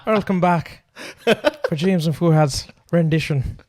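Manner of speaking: mock Irish show-host welcome; butchered Irish accent. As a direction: welcome listeners in a badly faked Irish accent. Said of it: "butcher an Irish accent".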